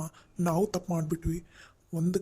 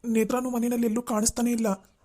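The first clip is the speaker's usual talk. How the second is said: worried alarm; 6 semitones higher than usual. Acted. Reporting wife is missing.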